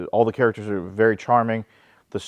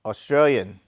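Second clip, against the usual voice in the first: mock call across room; 4 semitones higher, 4 dB louder than usual. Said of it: "So I said".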